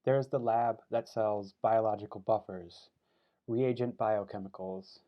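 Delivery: deliberate recital, slow on short phrases; poetry reading. Acted. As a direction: set each image apart with a pause. Reads poem for his mother.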